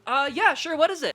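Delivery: high, curious voice; mock eager listener. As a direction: lean in, eager to hear. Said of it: "it's just like".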